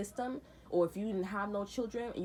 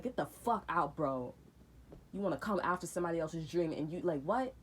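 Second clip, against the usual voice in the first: angry rant. Retold or imitated. Retold eviction rant.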